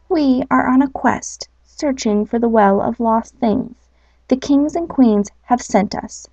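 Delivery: mildly proud declaration; a light touch of pride, standing tall. Acted. Elf telling the bee their quest, lightly proud. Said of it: "the elf declared in a proud voice".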